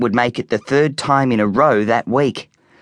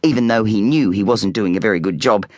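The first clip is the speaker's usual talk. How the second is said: ordinary delivery, nothing marked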